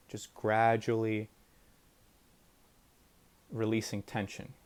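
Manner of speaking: unhurried guidance with long pauses; guided meditation. Shown as a demonstration. Teacher guiding listeners to release body tension, guided meditation. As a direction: ease listeners through relaxing, phrase by phrase.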